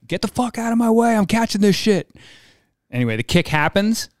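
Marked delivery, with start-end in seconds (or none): 0.1-2.1 much higher, brash trash talk; mock trash-talk yell. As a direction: shout him off the spot. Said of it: "And I'm like".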